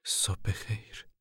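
slow, wary whispered greeting; suspicious greeting. A narrator's reading. Mother greets the camp manager warily, slow and whispered. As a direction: greet him slowly, full of doubt. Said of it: "با سوء ظنی شدید".

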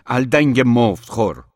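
a yelled insult at full force; furious shout. A narrator's reading. Orhan, shaking with rage, yells at Aydin, furious. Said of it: "فریاد زد".

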